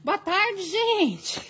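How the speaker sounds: lightly voiced little girl playing live host; a hint of a child greeting her viewers; a hint of a little girl copying mom's live greeting; imitating her little girl. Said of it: "ela fica me imitando".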